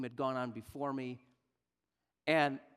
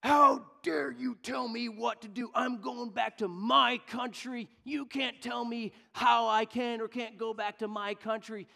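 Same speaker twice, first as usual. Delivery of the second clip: furious shout, much higher and louder; angry shouting; 10 semitones higher, 7 dB louder than usual. Retold or imitated. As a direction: yell like an outraged traveller. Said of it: "And he said".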